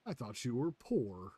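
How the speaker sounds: slow mocking punchline; Damon Darling catchphrase. Streamer retells prankster's reply to a stranger, mocking drawl. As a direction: imitate a prankster's drawn-out taunt. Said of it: "the way he says it".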